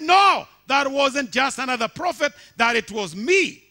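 loud, high proclaiming shout; God's shouted answer. Acted. Preacher voicing God shouting back at Satan. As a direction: shout the revelation. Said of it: "God said".

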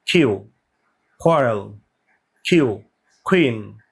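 কিউ with the k sound between ক and খ; careful pronunciation demo. Shown as a demonstration. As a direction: say কিউ slightly aspirated, halfway between ক and খ. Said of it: "কিউ এর উচ্চারণটা কিন্তু ক এবং খ এর মাঝে".

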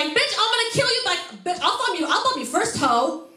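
mock-furious threat from a heckler; lightly imitated heckler threatening. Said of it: "she's like".

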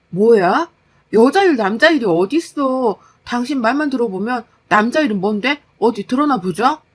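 incredulous, heated challenge; indignant wife. Acted. Wife challenging her husband on men's and women's work, indignant. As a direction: throw his excuse back at him.

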